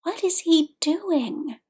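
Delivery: slow, high, bewildered question; aghast. Acted. Wide-eyed friend asking about the wild fan, aghast. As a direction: draw it out in appalled disbelief.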